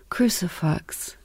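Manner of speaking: slow, hushed whisper of the band name; soft slow whisper; awed whisper. Retold or imitated. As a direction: breathe the name out in awe. Retelling her awed reaction.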